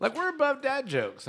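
high, lightly haughty; lightly haughty claim; mock lofty. Real, not acted. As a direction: play it superior. Claims they're above dad jokes.

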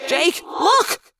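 mild alarmed yell; excited warning shout; Marco. A narrator's reading. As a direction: call out urgently to a friend, with echo. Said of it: "Marco yelled".

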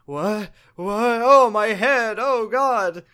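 rising, loud bewildered cry; confused distress. Retold or imitated. Daughter snapping out of the cult, loud and bewildered. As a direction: wake up confused and in pain. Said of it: "And then she's like".

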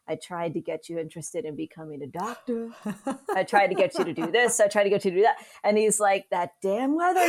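a light touch of a Queens New York accent, imitating dad; doing dad's Queens accent, loosely. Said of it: "So in his accent".

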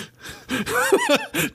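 high burst of laughter. Real, not acted. Player laughs at bar wrapper.

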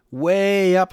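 slow, high, loud storyteller emphasis; high and stretched. A narrator's reading. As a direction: lift the voice way up and stretch it. Narrator stretches words for height.

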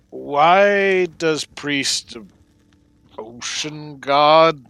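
very slow halting creature voice; slow broken speech. Acted. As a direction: pick each word out slowly.

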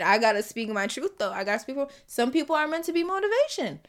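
ordinary talk, nothing marked

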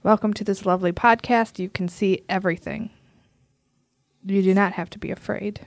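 sinister. Pretend. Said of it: "You sound so sinister".

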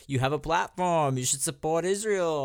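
lightly imitated Jewish accent; a hint of a Jewish accent, insistent; bad Jewish accent. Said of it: "that was a really, like, bad Jewish accent".

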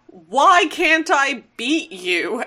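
slow, high mock lament; frustrated whine. Hot Rod failing to hit Devastator, frustrated. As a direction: drag it out in exasperated protest.

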